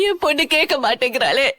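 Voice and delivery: words wet with sobs; sobbing lament. Acted. Mother sobbing that her daughter won't listen, crying. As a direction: cry it out.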